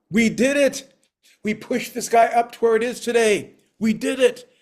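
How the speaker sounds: high, loud cheer of victory; triumphant. Acted. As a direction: celebrate like the sky just moved. Triumph after pushing up sky.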